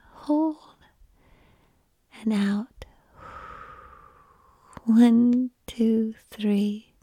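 slow guided breathing count. Acted.

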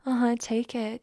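normal talking voice

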